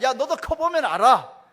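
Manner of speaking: slow, loud "커보면" with a falling end; resigned retort. Retold or imitated. Father ending the argument with his daughter, slow and loud. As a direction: drag it out like a tired dad ending the talk.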